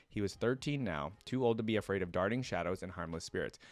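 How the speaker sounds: steady lore-reading voice, measured and even; story narration. Acted. Streamer reads League lore to viewers, storyteller voice. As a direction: read it like the lore entry.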